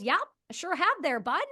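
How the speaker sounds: unbothered Canadian owning it; Canadian accent. Retold or imitated. Homeowner admits it to the agents, in a Canadian accent. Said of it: "I'm gonna try to do the Canadian accent".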